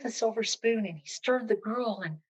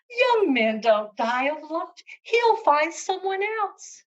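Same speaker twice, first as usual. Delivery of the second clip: scoffing through laughter; 8 semitones higher, 5 dB louder than usual. Acted. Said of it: "Cap of Rushes burst out laughing".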